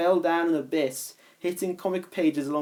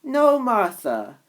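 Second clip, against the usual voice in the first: surprised; 8 semitones higher, 4 dB louder, slower than usual. Acted. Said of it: "very surprised".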